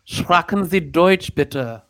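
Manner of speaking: mock-German father, slow and grand; hammed-up German father voice; German-speaking father. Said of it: "The beautiful, like, accent".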